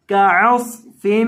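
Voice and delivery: का अस फिम with the मीम held through the nose; nasal meem ghunna. Shown as a demonstration. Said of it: "मीम की आवाज़ को नाक में पढ़ना है". (मीम पर गुन्ना के साथ)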